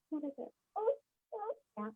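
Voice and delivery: choking up. Real, not acted. Breaks down recalling scary diagnosis.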